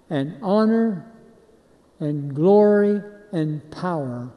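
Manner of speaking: a hushed, solemn doxology; reverent. Shown as a demonstration. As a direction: read it with quiet awe. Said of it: "he says these words".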